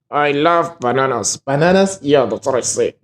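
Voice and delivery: lightly voiced puppet, bananas said with a V; a hint of a dummy voice without moving lips; squeaky ventriloquist dummy. Shown as a demonstration. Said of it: "my puppet can just go".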